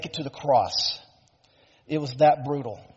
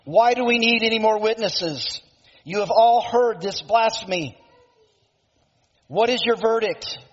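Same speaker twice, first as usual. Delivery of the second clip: raised-pitch, mildly acted outrage; indignant accuser voiced by a preacher; horrified outrage; 4 semitones higher than usual. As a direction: play an appalled high priest with some restraint. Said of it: "tore his clothes in horror".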